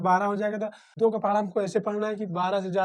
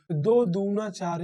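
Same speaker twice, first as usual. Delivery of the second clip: slow times table; much slower than usual. Shown as a demonstration. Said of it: "recites the times table".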